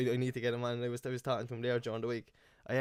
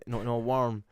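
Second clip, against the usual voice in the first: put-on granddad's Cork accent; 4 dB louder, much slower than usual. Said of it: "my granddad talks like that".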